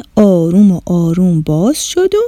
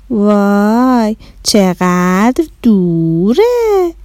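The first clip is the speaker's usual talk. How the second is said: slow, drawn-out amazement; awed wow; much slower than usual. Acted. Neshat marvelling at the distance, slow and awed. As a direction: let the wow hang.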